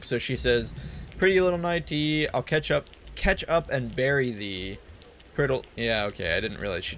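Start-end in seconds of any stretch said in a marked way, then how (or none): 1.2-4.8 weird lady's song. Acted. Weird lady changes her song for the lad, half-chanted. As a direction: lightly chant it as a sea-side seer. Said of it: "she changes her song".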